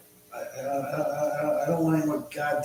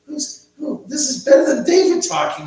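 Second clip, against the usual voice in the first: much higher, joking spirit chatter; mock spirit voice; 14 semitones higher, 9 dB louder than usual. Joking that spirits talk to viewers, high mock voice. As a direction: squeak like a spirit butting in. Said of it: "You get to hear the spirits conversing".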